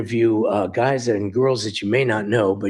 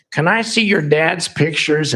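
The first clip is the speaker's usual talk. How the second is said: inner voice; 7 semitones higher, 5 dB louder than usual. Retold or imitated. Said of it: "I thought to myself".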